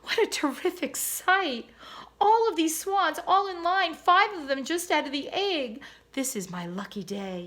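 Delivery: high, loud excited exclaim, settling at the end; thrilled boy. A narrator's reading. Sam seeing the swan family, high and thrilled. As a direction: marvel out loud at the swans.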